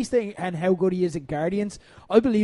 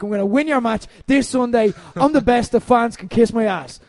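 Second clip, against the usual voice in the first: loud, higher brash wrestler boast; cocky trainee promo; 4 semitones higher, 5 dB louder than usual. Retold or imitated. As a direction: blast it out like an overconfident rookie. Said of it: "And they're like".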